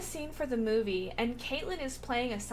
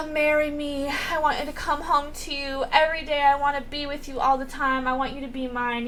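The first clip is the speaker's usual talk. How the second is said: breathy sigh, then higher, eager pleading; gushing proposal; 3 semitones higher, 4 dB louder than usual. Retold or imitated. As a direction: act out a lovestruck proposal. Acting out an eager marriage proposal.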